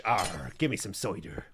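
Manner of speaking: piratical West Country burr; caricatured West Country accent; Southwest England accent. Acted. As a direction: do a mock Southwest English cider drinker. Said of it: "the Southwest is pretty much".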